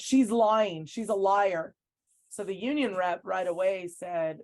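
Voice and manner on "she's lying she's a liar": retold yell. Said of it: "So he yells out".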